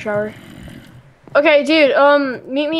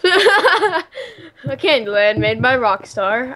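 laughing; much slower than usual. Real, not acted. Laughs repeating friend's claim.

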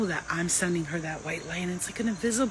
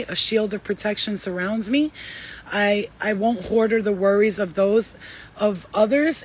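steady, earnest prayer reading; reciting a prayer. Shown as a demonstration. Reading the empath prayer to viewers, earnest and steady. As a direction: read it like a vow you believe. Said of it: "that's an empath prayer".

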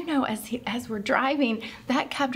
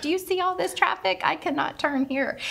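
retold yelling; 7 semitones higher than usual. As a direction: imitate an exasperated driver without shouting. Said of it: "he's yelling at us".

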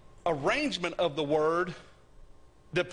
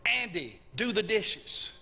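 "Andy" pitched up and set apart; stress on Andy; 4 semitones higher, slower than usual. Shown as a demonstration. Preacher quizzing listeners on emphasis, "Andy" stressed first. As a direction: hit "Andy", then give the order. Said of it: "What's the emphasis on that sentence?".

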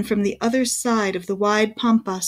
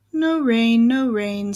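sighing; slower than usual. Acted. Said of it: "sighed the tree".

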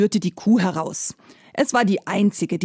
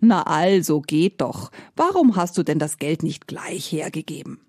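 conciliatory; 3 semitones lower than usual. Acted. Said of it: "sagte versöhnlich".

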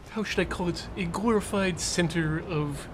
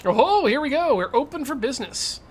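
excited; 7 semitones higher, 4 dB louder than usual. Real, not acted. Finds upgrades, gets excited.

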